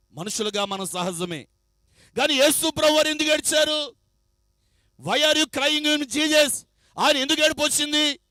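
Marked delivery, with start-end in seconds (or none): 5.0-6.5 slow English quote. Acted. Preacher quotes English question.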